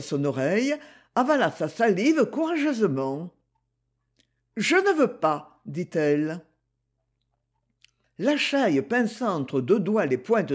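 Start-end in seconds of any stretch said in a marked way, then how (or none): 4.6-5.6 Gigi's voice. Acted. Gigi refuses, swallowing hard.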